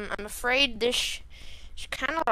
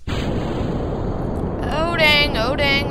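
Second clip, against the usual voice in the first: raised, rapid-fire alarm; mock-panicked raised voice; panicky; 3 semitones higher, 4 dB louder, much slower than usual. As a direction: blurt it in rising panic. Rocket going out of control.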